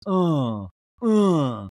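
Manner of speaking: two loud put-on sighing grunts; mock sighs. Housewife sighing in a talking head, exaggerated mock sighs. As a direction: sigh heavily out loud, twice. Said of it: "sighs and goes".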